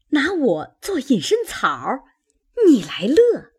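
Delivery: a hint of an aggrieved old auntie; scolding elder. Old auntie reproaching Chunyan for playing, lightly voiced scolding.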